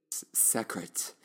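slow, whispered secret; playful whisper. Pretend.

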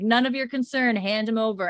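a mild shouted retort; mock yell. Man inside answering Roger, mild mock yell. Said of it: "we hear the man inside yell".

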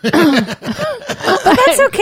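laughing it off, drawn out. Real, not acted. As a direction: chuckle through the words. Laughs off fan scrutiny.

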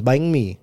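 "bang me" said through the nose; nasal. Shown as a demonstration. Teacher showing a friend how nasal it is, nasal "bang me". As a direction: let "bang me" ring in the nose. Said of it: "it's very nasal".

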